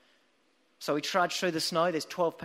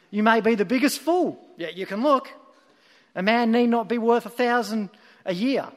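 louder, higher pulpit voice; lay preacher; 4 semitones higher, 5 dB louder than usual. Acted. Lay preacher expounding his simple text to twelve people, raised preaching voice. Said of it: "And then the preacher continued".

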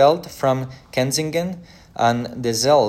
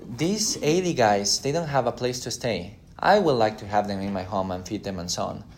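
playful pleading wife. Retold or imitated. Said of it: "She's like".

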